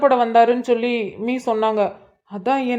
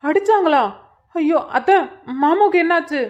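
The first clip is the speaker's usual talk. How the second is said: shocked; 5 semitones higher than usual. Acted. Shocked at news of beating.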